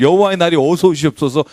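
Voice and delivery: mock a showy prayer; mock eager worshipper. Preacher mocking worshippers praying for the Lord's day, hammed-up. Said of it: "이럴 수 있다는 거예요".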